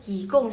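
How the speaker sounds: "yi gong" with YI rising into GONG; tone change on yi. Shown as a demonstration. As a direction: lift YI as second tone, drop GONG as fourth. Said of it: "jadi dia berubah jadi nada kedua". ("yi gong", YI naik nada dua, GONG turun)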